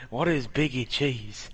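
slow, baffled teacher voice; mock-confused teacher asking slowly; puzzled teacher. Retelling how the teacher asked about Biggie cheese, slow and baffled. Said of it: "She's like".

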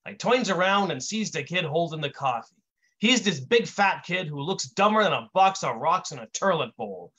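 lightly voiced wise-guy storyteller; Brick telling his tale. Brick tells his origin story to an audience, wise-guy storyteller. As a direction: tell it as a streetwise raconteur.

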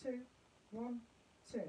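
evenly spaced counting with gaps; steady pulse count. Shown as a demonstration. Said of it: "this is the pulse".

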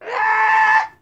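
high loud squawking parrot. Pretend. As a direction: squawk it like a pet macaw. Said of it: "I do the blue and gold macaw".

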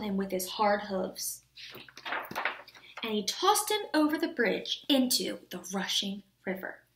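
put-on measured storybook reading for children; story narration. A narrator's reading. Teacher reading a fairy tale to the class, storytelling. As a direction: read the tale clearly and steadily.

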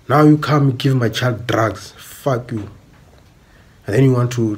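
real anger rising; angry outburst. Real, not acted. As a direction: hurl it at them. Angry rant at parent.

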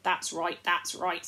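cheerful loud agreement; loud, cheerful chorus. Acted. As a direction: agree brightly as a group. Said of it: "said all the voices cheerfully".

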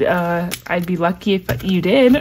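laughing through it, tripping on the words; can't get the words out for giggling; stumbling with a laugh. Real, not acted. Fumbling a reply to a kind sender, laughing. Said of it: "I can't even talk".

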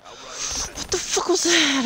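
slow, drawn-out high what the fuck; stunned disbelief. Real, not acted. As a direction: stretch it out in disbelief. Stunned by a kill.

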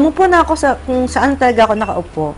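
ordinary talk

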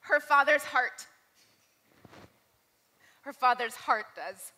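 slow, emphatic public declaration; proclaimed to all. Retold or imitated. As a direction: announce it firmly for everyone to hear. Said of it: "turned for everyone to hear".

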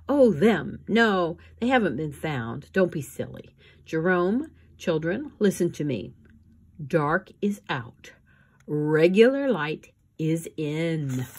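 vain trendy woman brushing them off; haughty socialite. Acted. Esme dismisses orphans, trend news.

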